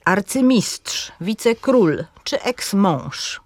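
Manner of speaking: slow arcy-MISTRZ, wice-KRÓL, eks-MĄŻ; final syllable stress. Shown as a demonstration. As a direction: stress the last syllable of "arcymistrz", "wicekról", "eksmąż". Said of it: "przykłady akcentu na ostatniej sylabie".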